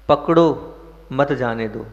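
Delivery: पकड़ो drawn out, then मत जाने दो together; stress on पकड़ो. Shown as a demonstration. Worldly path tells people to hold on, पकड़ो stressed. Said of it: "एक में कहीं पर जोर दे रहा हूँ".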